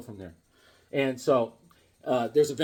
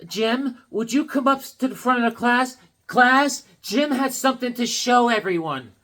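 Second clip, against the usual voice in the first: lightly voiced teacher; 6 semitones higher than usual. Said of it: "she goes".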